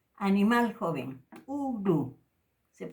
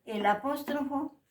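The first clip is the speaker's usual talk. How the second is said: "apóstrofo" raised high; teacher emphasis; 6 semitones higher than usual. Shown as a demonstration. Teacher introducing the glottal apostrophe sign. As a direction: point up "apóstrofo" for the class. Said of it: "se pronuncia con el sonido glotalizado".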